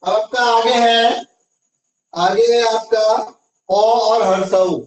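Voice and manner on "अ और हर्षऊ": slow teaching. Shown as a demonstration. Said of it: "अ के साथ क्या जुटेगा?".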